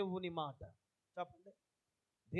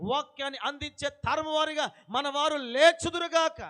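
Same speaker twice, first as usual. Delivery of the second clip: climactic blessing; 3 semitones higher, 5 dB louder than usual. Acted. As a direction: lift the blessing to its peak.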